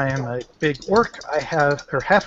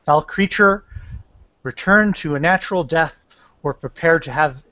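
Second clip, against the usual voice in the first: measured, formal warning to a foe; intimidating. Acted. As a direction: deliver a restrained threat in deliberate phrases. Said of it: "I'm trying to intimidate".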